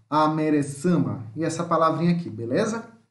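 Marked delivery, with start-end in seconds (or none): 0.1-1.3 "Amerecama" said slowly; slow word demonstration. Shown as a demonstration. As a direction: repeat "Amerecama" slowly for learners. Teacher repeats the shown word.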